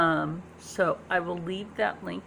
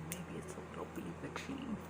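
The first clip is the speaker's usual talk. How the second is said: much lower, softer witchy hush; spooky bewitching voice; 13 semitones lower, 13 dB quieter, faster than usual. Acted. Vlogger teasing viewers in a low spooky witch voice. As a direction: cast a spell with the words. Teasing about her animal magnetism.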